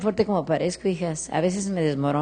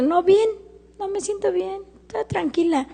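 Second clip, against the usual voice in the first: much higher, strained fake-fine voice; retold forced reassurance; 13 semitones higher than usual. Widowed mother telling her daughter she is fine, high strained pretend-calm. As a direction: pitch it way up, pretending all is well.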